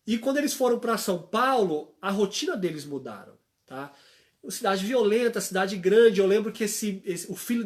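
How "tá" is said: ordinary delivery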